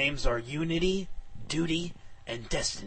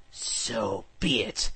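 resigned sigh; 4 semitones lower, much slower than usual. Acted. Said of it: "I sighed again and said".

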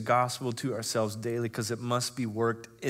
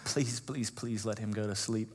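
hushed pleading prayer; 2 semitones lower, 7 dB quieter than usual. Retold or imitated. Begging God with crying baby.

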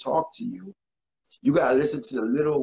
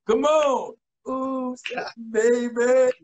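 mock rapper; 9 semitones higher than usual. Recalling a rap group, he yelps the ad-libs high. Imitating a song.

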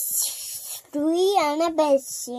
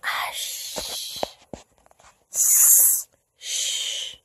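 soft unvoiced shh; breathy bedtime shush; 5 dB quieter, much slower than usual. Real, not acted. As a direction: hush them softly. Child shushing at bedtime story.

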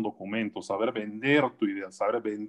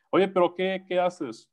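imitating a puzzled relative; 7 semitones higher than usual. Relatives asking about job.

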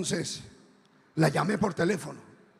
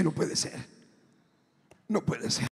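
disbelieving murmur; 4 dB quieter than usual. Retold or imitated. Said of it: "Y entonces dije".

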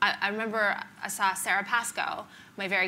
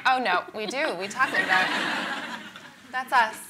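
laughing admission; 3 dB louder, slower than usual. Retold or imitated. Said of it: "And now I'm like".

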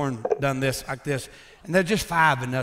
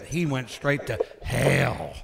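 slow growl; 2 semitones lower, slower than usual. Shown as a demonstration. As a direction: growl each word slowly. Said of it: "I'd growl when I say it".

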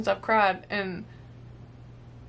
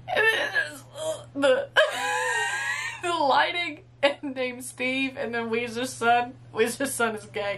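laughing while crying; 3 semitones higher than usual. Real, not acted. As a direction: laugh through tears, slowly. Laughing and crying over the scene.

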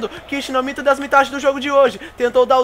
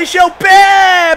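shout; 7 semitones higher, 7 dB louder, slower than usual. Real, not acted. Missed shot in live commentary.

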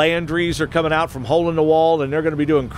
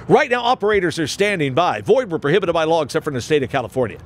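announcer voice; faster than usual. Pretend. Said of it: "Do I sound like an announcer?".

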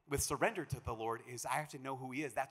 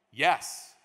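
eager yes; 10 dB louder than usual. Retold or imitated. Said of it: "The answer is".

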